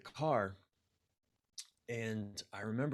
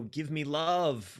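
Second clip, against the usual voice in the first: slow, drawn-out needy plea; anxious plea; 5 semitones higher, 4 dB louder, much slower than usual. Retold or imitated. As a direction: stretch it out like begging for love. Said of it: "sort of anxious".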